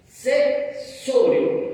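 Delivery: very slow, hushed solemn reading of the verse; hushed scripture quote. Shown as a demonstration. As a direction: lean in and breathe the verse out slowly, nearly voiceless. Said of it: "la palabra dice".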